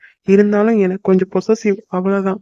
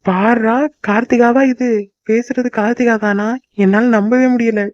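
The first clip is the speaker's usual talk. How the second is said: higher, playful disbelief at her; teasing amazement; 3 semitones higher than usual. Acted. Husband teasing Karthika about her new patience, mock amazed. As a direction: tease her, pretending you can't believe it.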